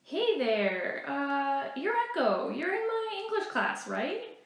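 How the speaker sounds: a hint of an eager classmate saying hello; lightly voiced friendly teen boy. Micah greeting Echo at school, lightly voiced eager boy.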